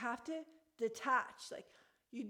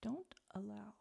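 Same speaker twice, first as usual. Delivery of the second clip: soft unvoiced whisper; 2 semitones lower, 5 dB quieter than usual. Real, not acted. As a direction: breathe it without voice, as an aside. Hushed aside off-mic.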